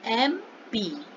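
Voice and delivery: एमपी stretched out slowly as "em-pee" for students to repeat; slow, drawn-out एमपी for the class to repeat; slow drill. Shown as a demonstration. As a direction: draw out एमपी slowly so the class can copy it. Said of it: "बोलिए".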